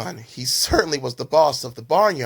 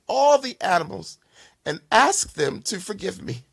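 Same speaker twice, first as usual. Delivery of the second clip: tearful, higher-pitched apology; sobbing a little; 6 semitones higher, 3 dB louder than usual. Acted. Ashamed bully apologising to the big bull: tearful apology. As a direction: apologise through a light sob. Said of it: "Bill began to sob a little".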